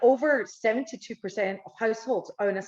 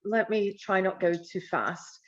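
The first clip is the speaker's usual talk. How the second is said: broad Scottish accent. Real, not acted. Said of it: "this very thick Scottish accent".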